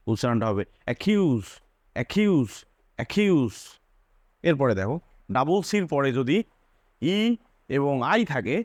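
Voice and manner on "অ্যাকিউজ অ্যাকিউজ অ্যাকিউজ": অ্যাকিউজ with a hard খ sound; double c as k. Shown as a demonstration. Teacher showing the double c as k. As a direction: stress the খ in অ্যাকিউজ. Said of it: "এরপরে কিন্তু ইউ আছে".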